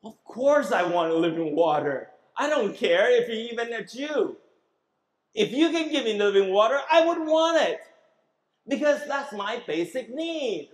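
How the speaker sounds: a hint of a thirsty woman pleading; eager Samaritan woman. Samaritan woman to Jesus, lightly voiced eager plea. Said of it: "She thought in her head".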